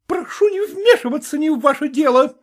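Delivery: high, sharp snap; snapping. Acted. Vasilisa snapping at the footman, angry. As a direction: bite his head off. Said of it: "огрызнулась".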